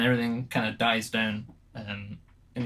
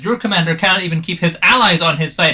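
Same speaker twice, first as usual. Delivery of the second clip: loud, higher, furious soldier; angry accusation; 8 semitones higher, 15 dB louder than usual. Acted. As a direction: hurl the blame at them. GM voices angry NPC Samwern.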